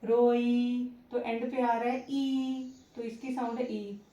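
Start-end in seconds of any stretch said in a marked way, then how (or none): 0.0-0.9 रोई said a little louder, stressing the final ई; example word. Shown as a demonstration. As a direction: lean on the ई at the end of रोई. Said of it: "या इसको कहेंगे देखी".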